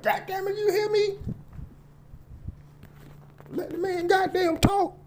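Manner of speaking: high screaming rage at the crowd; shrieking at the congregation to shut up; furious shout. Acted. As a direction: scream it down at the mamas. Preacher yelling at congregation.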